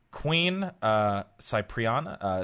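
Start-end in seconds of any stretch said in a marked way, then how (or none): 1.4-2.2 "Cypriana" with an initial "sigh" sound; trial pronunciation. Shown as a demonstration. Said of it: "How would you say that?".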